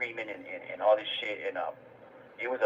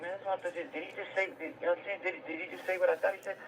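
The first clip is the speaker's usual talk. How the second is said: higher, hushed replay of disbelief; mild retold disbelief; 6 semitones higher, 7 dB quieter, faster than usual. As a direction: act out quiet incredulity, pitched up and softer.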